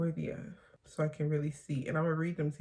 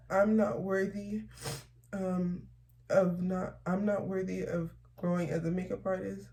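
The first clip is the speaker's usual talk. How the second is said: tearful reading; 3 semitones higher than usual. Real, not acted. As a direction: hold back real tears as each line gets harder. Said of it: "I started crying".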